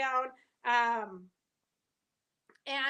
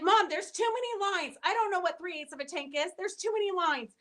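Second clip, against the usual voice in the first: flustered son; 5 semitones higher than usual. Retold or imitated. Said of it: "He's like".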